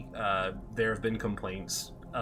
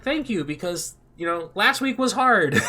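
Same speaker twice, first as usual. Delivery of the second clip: mock exasperation; 8 semitones higher, 7 dB louder than usual. Venting relief to manager.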